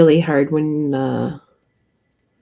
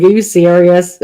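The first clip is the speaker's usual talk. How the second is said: incredulous; 9 dB louder than usual. Retold or imitated. Retells own incredulous reply to friend.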